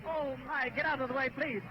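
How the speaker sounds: an old-time newsreel announcer, hammed up; playing the frantic Hindenburg broadcaster; mock radio announcer. Parodying the Hindenburg radio reporter for friends, mock announcer.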